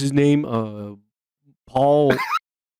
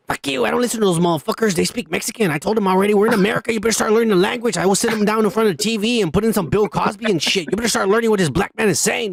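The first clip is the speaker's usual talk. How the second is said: mock rant; 4 semitones higher, faster than usual. Mock rant about his parents.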